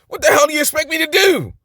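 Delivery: high-pitched mock exasperation; emphatic rhetorical question. Shown as a demonstration. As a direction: throw it out as a question expecting no answer. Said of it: "an emphatic statement with a rhetorical question".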